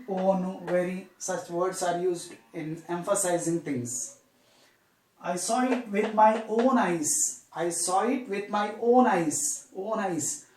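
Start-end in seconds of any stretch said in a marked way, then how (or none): 5.2-9.7 "own" drawn out and emphasized; slow, emphatic sentence leaning on "own"; stress on "own". Shown as a demonstration. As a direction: stretch the word "own" for emphasis. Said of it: "We are stressing".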